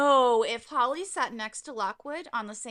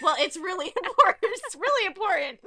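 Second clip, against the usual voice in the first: insistent; 8 semitones higher, 8 dB louder than usual. Retold or imitated. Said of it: "And she's like".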